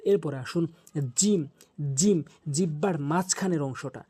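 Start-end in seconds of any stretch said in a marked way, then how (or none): 1.2-2.2 জিম from the middle of the tongue on the palate; Arabic letter jim. Shown as a demonstration. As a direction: model জিম for students to copy. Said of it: "এভাবে উচ্চারণ করবেন".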